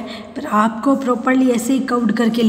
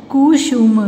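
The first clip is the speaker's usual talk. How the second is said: कुसुम drawn out in parts; syllable by syllable; 2 semitones higher, 4 dB louder, slower than usual. Shown as a demonstration. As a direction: sound out कुसुम. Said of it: "फिर ये सारे बोलने". (कुसुम को तोड़-तोड़ कर)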